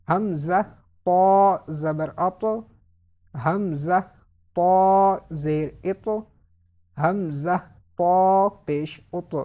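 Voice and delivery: slow spelling, long heavy "تا", bouncing t in "ات"; measured recitation with rebounding endings; qalqalah drill. Shown as a demonstration. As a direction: make the final t of "ات" echo, full-mouthed. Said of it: "اس طرح پڑھیں گے".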